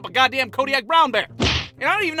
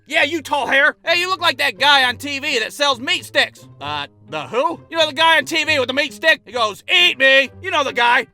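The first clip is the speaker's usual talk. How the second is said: eccentric teacher; 3 semitones higher, 4 dB louder than usual. Retold or imitated.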